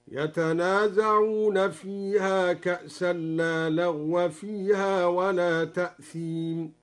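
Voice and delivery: لا لغو with open fatha on the waw, slow; Duri reading demo. Shown as a demonstration. Teacher demonstrating the Duri variant of the verse, slow recitation. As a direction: say لغو as laghwa with an open final vowel, slowly. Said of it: "بفتح الواو ... هكذا".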